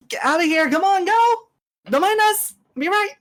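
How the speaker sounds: high-pitched urgent shout; yelling back. Acted. Character yells to allies to clear out, high urgent yell. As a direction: call out high, shooing them away. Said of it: "she's gonna yell back".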